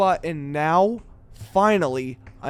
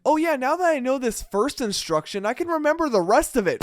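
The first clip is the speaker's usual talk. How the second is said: sarcastic; 9 semitones higher than usual. Pretend. Mocking whoever ripped the pages.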